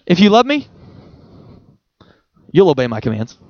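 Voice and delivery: tender reading of the same verse; gentle loving version. Shown as a demonstration. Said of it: "I think he would say it this way".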